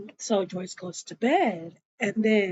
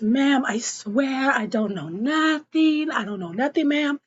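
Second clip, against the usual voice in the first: higher-pitched mock pleading; pleading assistant; 4 semitones higher than usual. Assistant questioned by her boss, acted pleading. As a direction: play the employee swearing innocence.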